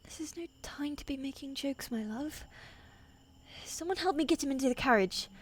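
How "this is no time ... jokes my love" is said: soft, tender, fond rebuke. Acted. Queen softly teasing her wounded husband, tender. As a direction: gently scold him with love.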